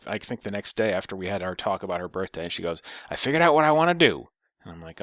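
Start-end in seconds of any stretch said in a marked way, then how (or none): 3.1-4.3 put-on high, loud announcement as an old lady; raised mock old-lady voice. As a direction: imitate an old woman, pitched up. Retelling old lady's phone call.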